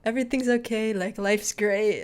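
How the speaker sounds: a touch of carefree ease, mock-innocent; retold breezy cheer. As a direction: lightly imitate easygoing cheer. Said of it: "he's very cheerful".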